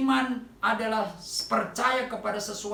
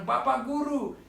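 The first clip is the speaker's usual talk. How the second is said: mock cry for help; 5 semitones higher than usual. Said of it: "Mereka berteriak".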